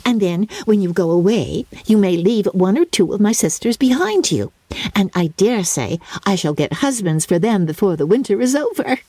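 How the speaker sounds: put-on high, plaintive old mother; fretful mother. Mrs Bennet to Lydia, high and plaintive. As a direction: whine it out like a fussy mamma.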